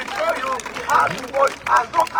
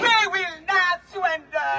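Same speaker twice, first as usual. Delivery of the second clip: roaring rallying speech; 4 semitones higher than usual. Acted. Rally speaker rousing crowd.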